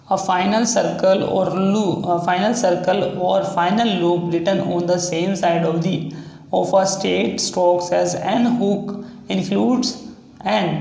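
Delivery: reading the rule out very slowly; slow, deliberate rule reading; slow dictation. Shown as a demonstration. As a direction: dictate each word so students can copy. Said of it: "teacher reads rule slowly".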